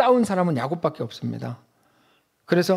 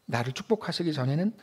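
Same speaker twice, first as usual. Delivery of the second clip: quiet, desperate pleading to God; pleading confession; 2 semitones lower, 4 dB quieter than usual. Pretend. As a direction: beg for a blessing, voice sinking. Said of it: "라고 말하죠".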